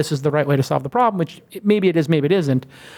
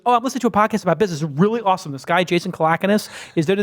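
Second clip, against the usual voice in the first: quick, higher, casual gushing; pretending to be a stranger; 3 semitones higher, faster than usual. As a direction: rattle it off like a random passenger. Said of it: "she pretends that she's not my wife".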